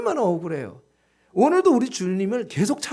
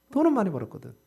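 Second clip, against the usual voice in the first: usual speaking voice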